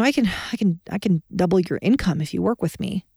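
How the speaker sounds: hesitant, stumbling pitch with no conviction; tentative. Shown as a demonstration. Coach demoing a hesitant sales pitch to a prospect, tentative. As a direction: pitch it like you doubt yourself, repeating the start. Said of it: "I'm tentative".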